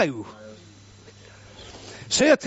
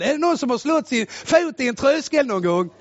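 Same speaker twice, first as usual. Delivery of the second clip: usual speaking voice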